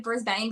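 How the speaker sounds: "Brisbane" with a full "bane" ending; alternative pronunciation. Shown as a demonstration. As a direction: say "Brisbane" to rhyme with "rain". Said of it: "there's different ways to pronounce things".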